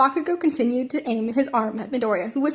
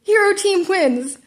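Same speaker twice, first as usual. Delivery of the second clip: announcer yell; 8 semitones higher, 4 dB louder, slower than usual. Acted. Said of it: "All Might yelled".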